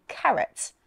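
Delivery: "carrot" with the R pronounced between the vowels; non-rhotic speaker still sounding the middle R in "carrot"; sounded R. Shown as a demonstration. Teacher gives example of R between vowels, "carrot" with R sounded. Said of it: "we do pronounce the letter R".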